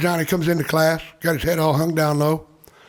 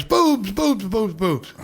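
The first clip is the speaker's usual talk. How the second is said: eager blurting; 4 semitones higher, much slower than usual. Acted. Joke patient blurts answer.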